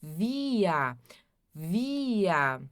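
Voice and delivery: Via repeated, V and final A; German pronunciation. Shown as a demonstration. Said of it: "a pronúncia". (Via repetido devagar)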